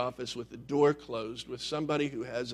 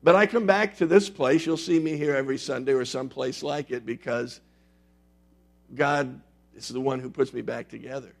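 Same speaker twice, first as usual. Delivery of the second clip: loud, earnest church confession; confessing sinner; 2 semitones higher, 6 dB louder than usual. Shown as a demonstration. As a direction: proclaim your brokenness to the room. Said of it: "I'm going to have you do something like this".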